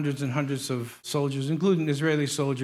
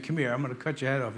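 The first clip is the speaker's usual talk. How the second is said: retold giant's threat, quick and softer; 3 semitones lower, 6 dB quieter, faster than usual. Preacher quotes Goliath threatening David, quick understated threat. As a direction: rattle off the giant's taunt. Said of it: "This giant was saying".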